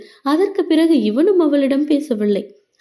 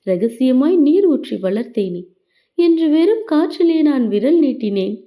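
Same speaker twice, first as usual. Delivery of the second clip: sad love poem. A narrator's reading. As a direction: recite it like a mournful verse. (மெதுவான சோகக் கவிதை வாசிப்பு)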